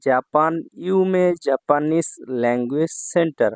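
centre name read slowly, ইউমে stressed; slow announcement. Shown as a demonstration. Teacher presents his centre's name slowly to viewers. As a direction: spell out the brand name deliberately. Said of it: "যে লেখাটা দেখতে পাচ্ছেন".

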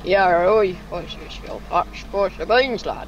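put-on playful Irish or Scottish accent; oi, lad, with a mock Scottish lilt. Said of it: "do your Irish or Scottish".

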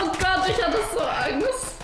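laughing shakily after a scare; adrenaline shakes. Real, not acted. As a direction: still shaken with racing heart. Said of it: "Alter, mein Herz".

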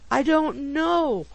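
high, loud, slow retort; pettish. A narrator's reading. Pickwick answers his bewildered friends, pettish. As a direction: snap back peevishly, dragging the words. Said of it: "replied Mister Pickwick pettishly".

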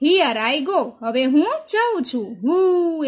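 half-hearted yell, held back for class; mild mock yell. Teacher voicing the girl setting off on her bicycle, mild yell. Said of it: "yelled, yell એટલે બૂમ પાડવી".

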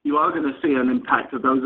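usual speaking voice

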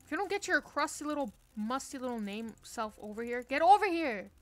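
mock furious yell. Real, not acted. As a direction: yell at the enemy player, hammed up. Yelling at opponent in game.

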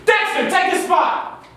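shouted order; calling out. Acted. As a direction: call it across the bench. Coach calls a sub.

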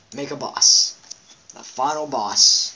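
flat, slow robot announcer voice. Pretend. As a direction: speak like a game robot, evenly. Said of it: "That's the robot voice".

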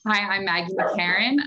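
rough just-woke-up voice; husky first words of the day; morning voice. Real, not acted. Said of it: "morning voice".

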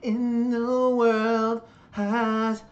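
dramatic intro voice. Acted. Dramatic opening line repeated.

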